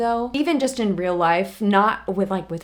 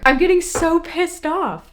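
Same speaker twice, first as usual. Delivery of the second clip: slow, much higher and louder fury; real rage; 8 semitones higher, 5 dB louder than usual. Real, not acted. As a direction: let the building anger boil over. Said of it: "my female rage is at an all-time high".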